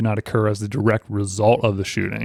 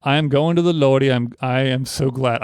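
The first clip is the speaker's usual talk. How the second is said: put-on light southern accent, reciting. Host reads the condemned man's poem aloud, southern accent. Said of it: "I have a southern accent to it".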